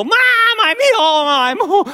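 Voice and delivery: put-on high, loud, breathless child cry; frantic relief. Boy grabs his mom, crying out frantically. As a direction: cry out as if just rescued.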